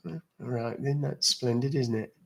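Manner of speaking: soft, understated mock British "splendid"; mock British accent. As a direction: play a quietly proper Brit for the chat. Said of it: "You love mimicking British accents".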